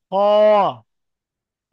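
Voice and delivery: খ short with rounded lips; খ clipped, lips rounded; short rounded kho. Shown as a demonstration. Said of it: "কিন্তু আপনি খ বলে দেখেন".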